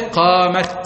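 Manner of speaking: قامت ending on a clear t; pausal ta kept. Shown as a demonstration. Teacher demonstrating the stop on قامت. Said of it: "طب قف على قامت".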